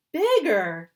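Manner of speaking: loud, high shout; big high shout of insistence. Acted. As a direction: yell it out insistently. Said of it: "Lunchbox Louie shouted".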